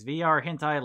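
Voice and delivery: ordinary delivery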